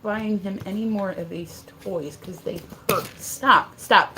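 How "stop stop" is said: loud, raised command; real annoyed order; sharp scolding. Real, not acted. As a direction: cut the dog off sharply. Dog interrupts with the toy.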